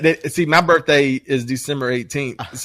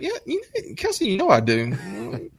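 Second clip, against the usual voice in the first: mock offended; 3 semitones higher, 4 dB quieter than usual. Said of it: "And I was like".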